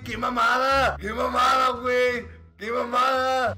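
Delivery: exasperated outburst. Real, not acted. Complaining about bad luck.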